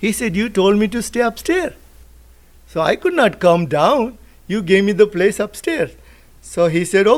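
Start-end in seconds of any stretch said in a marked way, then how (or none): 0.4-6.0 higher, a touch fast, matter-of-fact; innocent Jesus reply. Retold or imitated. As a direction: play Jesus answering simply, lightly voiced. Jesus answers the man in story.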